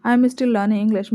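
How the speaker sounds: slow, clear example; slow model sentence. Shown as a demonstration. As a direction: say it calmly and slowly. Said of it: "आप इस तरीके से बोलें". (धीमा उदाहरण वाक्य)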